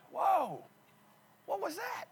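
a sudden breathy "whoa", then a high, hushed question; startled gasp. Retold or imitated. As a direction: caught off guard by a pop in the knee. Retold sudden knee pain.

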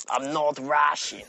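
hammed-up Eastern European protest, drawn out; Nico. Game hero kicking off about being called Russian, mock accented indignation. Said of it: "Nico kicked off about that".

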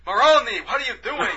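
high, loud put-on old man bickering; playing two old Jewish neighbours arguing about shoveling snow. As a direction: ham up a kvetching old neighbour. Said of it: "doesn't sound like, you know, the Jewish guy".

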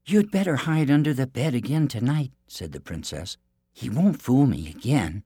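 high, sweet princess voice; bright storybook princess; theme park princess. Acted. Princess instructs Ashpaddle.

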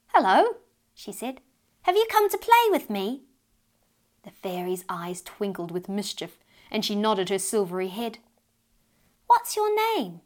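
lightly voiced thrilled child; excited little girl. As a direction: greet a new friend with delight. Child greets tiny fairy.

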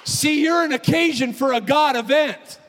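high, loud pulpit cry; preaching with the stress on you're; full-force preaching. Acted.

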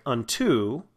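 "unto" with the second syllable punched; light first syllable in "unto", strong TO; stress on second syllable. Shown as a demonstration. Teacher showing students syllable stress, "unto" stressed on its end. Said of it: "second part of the word is more stressed".

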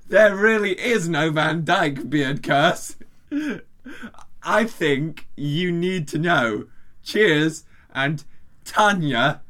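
put-on slow, deliberate Australian accent; bad Australian accent. Reading nonsense from the translated email, bad Australian accent. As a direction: stretch out a clumsy Australian accent. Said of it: "I'm just gonna do Australian".

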